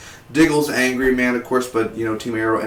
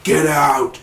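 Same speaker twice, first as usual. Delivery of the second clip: mildly raised retold command; intense; 4 semitones higher, 5 dB louder than usual. Reviewer quoting Oliver ordering people out, intense. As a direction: intense but mild mock yell. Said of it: "he was so intense".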